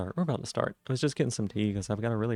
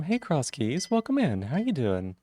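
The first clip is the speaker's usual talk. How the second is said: cheery welcome; 4 semitones higher than usual. Real, not acted. Streamer welcoming Cross Keys into the stream with a high welcome. Streamer greets a chat viewer.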